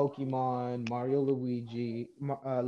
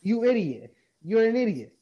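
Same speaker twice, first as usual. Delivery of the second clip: louder, rising angry insult; a mild retold yell, pitched up; angry shout; 7 semitones higher, 6 dB louder than usual. Retold telling off the guy.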